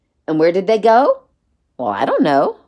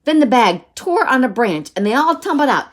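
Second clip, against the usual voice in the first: high-energy climax read-aloud; animated storyteller with exclamations pitched up; children's story narration; 3 semitones higher than usual. A narrator's reading. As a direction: build the excitement for young listeners.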